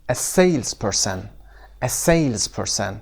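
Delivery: slow "salesperson" with SALES stressed; stress on first syllable. Shown as a demonstration. Teacher models "salesperson" for students, SALES stressed. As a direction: lean on SALES in a drawn-out "salesperson". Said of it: "استرسش هم قسمت اول".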